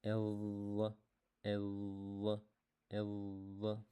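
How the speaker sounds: drawn-out heavy L sounds; repeat after me. Shown as a demonstration. Teacher leading the class in repeating the sound. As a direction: model each sound slowly for students. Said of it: "Say with me, repeat with me".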